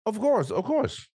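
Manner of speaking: high, slow mock-emphatic agreement. Real, not acted. Agreeing with his friend, high and drawn out.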